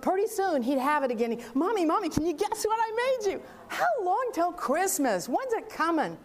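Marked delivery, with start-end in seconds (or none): 1.5-6.2 a small son begging Mommy to guess; eager little boy. Retold or imitated. Little son pestering his mom about his gift, eager child voice. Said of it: "My little boy, my youngest kid".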